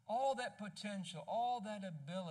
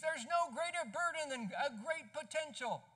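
louder, higher cartoon-kid cry of despair; a lightly voiced Linus, wailing it out; screaming Linus; 7 semitones higher, 4 dB louder than usual. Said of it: "And then he screams".

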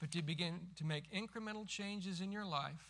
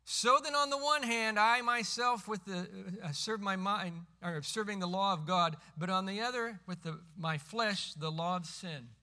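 full-force preaching; 8 dB louder than usual. Acted. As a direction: thunder the verse from the pulpit. Reads scripture at full force.

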